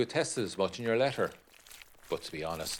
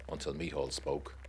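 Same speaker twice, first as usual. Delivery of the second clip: ordinary delivery, nothing marked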